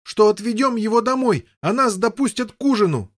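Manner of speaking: high, loud complaining shout; yell. Acted. Boy yelling at brother about supper. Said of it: "вопил Гавейн".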